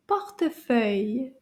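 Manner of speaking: "Portefeuille" joined up as one word. Shown as a demonstration. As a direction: say "Portefeuille" smoothly, without gaps between syllables. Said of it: "Let's say it a little bit faster".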